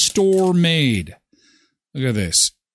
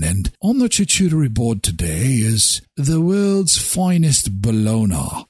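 fancy voice; 2 semitones lower than usual. Pretend. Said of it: "when I talk like this".

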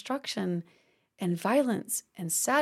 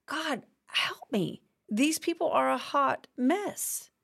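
mock complaining to God; 3 semitones higher than usual. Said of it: "He's complaining".

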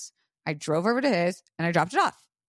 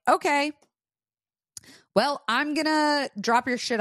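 high, loud snippy okay and threat; retold burst of frustration; exasperated retort; 9 semitones higher, 3 dB louder than usual. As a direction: fire it back, fed up. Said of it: "And I'm like".

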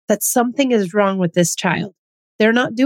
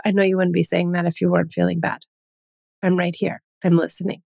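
calm reassurance; 3 semitones lower, faster than usual. Shown as a demonstration. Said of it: "A phrase that I really like to use is".

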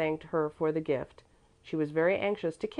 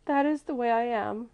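sobbing; 7 semitones higher than usual. A narrator's reading. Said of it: "sobbing aloud".

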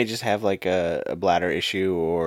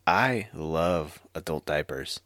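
slow earnest; 5 semitones lower, 5 dB quieter, slower than usual. Real, not acted. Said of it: "He's like".

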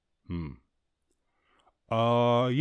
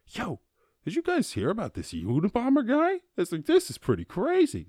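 put-on excited teen; 12 semitones higher than usual. Himself excited to parents.

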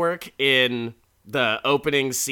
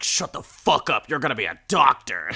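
mom hissing; 5 dB louder than usual. Retold or imitated. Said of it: "his mom is in the back".

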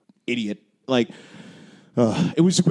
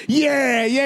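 mock bored yeah; 11 semitones higher than usual. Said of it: "Everyone, like, it was like".

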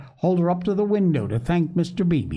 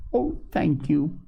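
higher, mildly delighted thanks; radiant cry; 5 semitones higher than usual. A narrator's reading. Polly thanking the visitor for posies, mildly delighted. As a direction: thank with a touch of radiant joy. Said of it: "cried Polly with a radiant face".

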